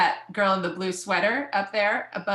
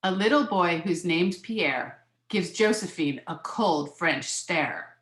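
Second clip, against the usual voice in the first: measured picture-book reading; lilting read-aloud of a children's book; story narration; slower than usual. A narrator's reading.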